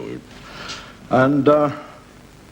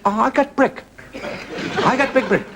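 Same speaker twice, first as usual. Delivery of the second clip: laughing; 12 semitones higher than usual. Acted. Character voiced with laughter.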